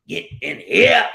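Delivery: loud high call. Real, not acted. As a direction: shout them into the room. Calling people in loudly.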